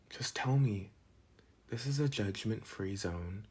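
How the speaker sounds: slow, coaxing whisper; sigh, then whisper it gently. Acted. Pressing the classmate to share his problem, slow whisper.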